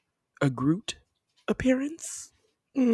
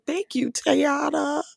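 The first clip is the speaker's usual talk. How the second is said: tag; 10 semitones higher, slower than usual. Retold or imitated. Retelling thanking an actress.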